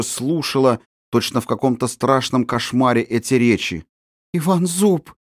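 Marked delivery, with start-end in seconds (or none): 4.3-5.1 a high, gasping first cry of the name; horrified recognition. Acted. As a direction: realise in terror who he is, pitch up. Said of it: "воскликнула она не своим голосом".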